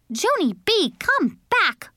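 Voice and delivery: high mother's call. A narrator's reading. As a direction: call after a runaway child. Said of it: "called Mother".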